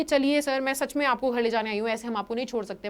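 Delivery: soft, fading coaxing plea; lovingly. Retold or imitated. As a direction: gently coax him to come home. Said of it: "बहुत प्यार से आकर के बोली".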